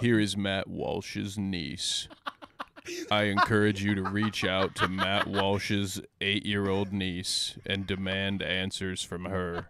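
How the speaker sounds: slow, grave announcement; dramatic reading. Acted. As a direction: read it like a solemn decree. Mock dramatic reading of tweet.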